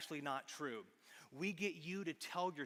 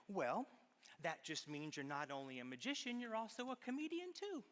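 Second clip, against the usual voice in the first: lightly voiced mom, rising much higher at the end; imitated mom; 4 semitones higher, 4 dB quieter than usual. Mom turning a child's worry around, imitated encouraging lilt. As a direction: imitate mom, starting soft and lifting into encouragement. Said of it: "she would say something like".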